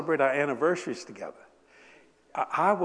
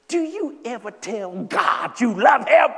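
higher, louder, slow wife voice; wife's earnest question; 7 semitones higher, 7 dB louder, slower than usual. Retold or imitated. Wife asking her husband about loving God, pointed. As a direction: ask it gently and pointedly.

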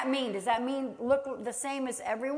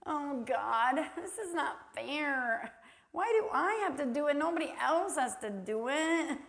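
mock whining. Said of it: "I'm really notorious for whining".

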